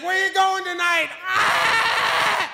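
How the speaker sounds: mock the eager cousin shouting; mimicking cousin.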